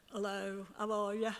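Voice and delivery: lightly put-on South Liverpool Scouse; a drummer's South Liverpool accent. Woman demonstrating a drummer's Scouse greeting, light South Liverpool accent. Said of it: "Ringo's got a real South Liverpool dingle".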